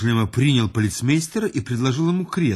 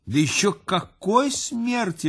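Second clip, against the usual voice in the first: a higher, pitying cry; sympathetic exclamation; 6 semitones higher than usual. A narrator's reading. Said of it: "воскликнул полицмейстер, ... с выражением сочувствия".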